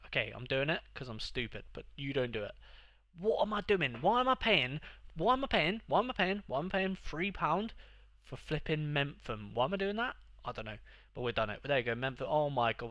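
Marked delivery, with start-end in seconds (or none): 3.2-7.7 high, loud disbelief at himself; exasperated. Real, not acted. Gamer despairing over his own purchase, high and loud. 9.5-10.2 high, incredulous self-question; exasperated. Real, not acted. Same exasperation.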